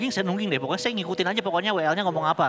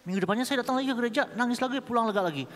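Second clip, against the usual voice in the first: fast, higher-pitched rattle through the routine; rapid repeat; 7 semitones higher, faster than usual. Real, not acted. Speaker recounting weekly church visits to the congregation, rapid repeat.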